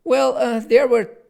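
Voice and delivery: unhurried read-aloud storyteller voice; story narration. Acted. Author reads his children's book to viewers, measured storytelling. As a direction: tell it like a bedtime tale.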